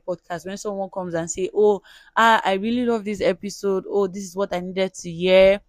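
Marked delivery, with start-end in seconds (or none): 1.5-5.6 imitated happy exclamation; delighted listener. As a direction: gush like a thrilled fan, quoted. Voicing a delighted listener's feedback.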